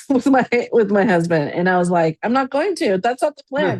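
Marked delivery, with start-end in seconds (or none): 2.2-3.8 high-pitched, louder protest; retold protest. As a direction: imitate yourself defensively insisting. Retelling her protest to grandpa.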